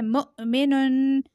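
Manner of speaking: "मुअमिनुन" with a sharp catch after मु; jerked Hamza. Shown as a demonstration. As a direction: jolt to a stop after मु in "मुअमिनुन", then hold the final n. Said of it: "इसे झटका देके पढ़ा जाता". ("मुअमिनुन" में हमज़ा पर झटका)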